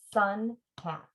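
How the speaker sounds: sun hat split in two beats; syllables apart. Shown as a demonstration. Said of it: "we're gonna break it apart".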